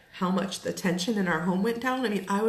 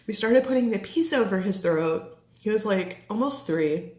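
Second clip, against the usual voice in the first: holding back tears; 3 semitones higher than usual. Real, not acted. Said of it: "I'm gonna get emotional".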